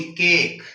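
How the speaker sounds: केक with a long drawn a sound. Shown as a demonstration. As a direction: stretch the vowel in केक. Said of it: "ए की आवाज लंबी होगी". (केक में लंबी ए की आवाज)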